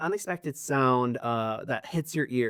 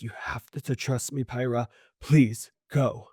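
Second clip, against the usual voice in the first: anxious pleading; 2 semitones lower than usual. Acted. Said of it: "you pick up that there's this anxiety".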